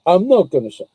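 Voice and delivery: mock Australian accent; clipped quote in a put-on Australian accent. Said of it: "It's my Australian accent".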